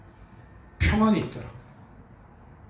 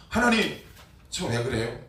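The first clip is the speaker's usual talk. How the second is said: retold prayer; 6 semitones higher than usual. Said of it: "이렇게 기도했어요".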